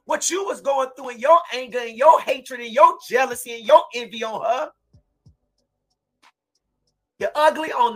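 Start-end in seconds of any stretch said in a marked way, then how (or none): 0.1-4.4 raised, high, outraged accusation; a mother's furious public denunciation; furious shout. Real, not acted. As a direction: shout it at them, voice breaking with rage. Grieving mother denounces the accused.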